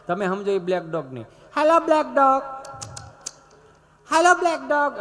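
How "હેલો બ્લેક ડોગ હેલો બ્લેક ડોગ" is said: much higher and louder call of hello; loud prissy hello. Retold or imitated. Tourist calling the dog over and over, high and loud. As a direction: call out to the dog in a fancy accent. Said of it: "આમ ચાર પાંચ વાર black dog".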